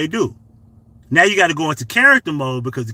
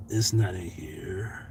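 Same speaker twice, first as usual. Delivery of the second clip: whisper; 7 semitones lower, 10 dB quieter, much slower than usual. Real, not acted. Muttering while searching phone.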